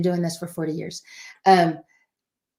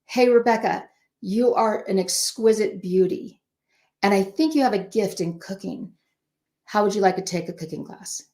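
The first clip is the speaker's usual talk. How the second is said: kind encouraging version. Shown as a demonstration. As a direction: build her up before you suggest it. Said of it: "That is two different ways".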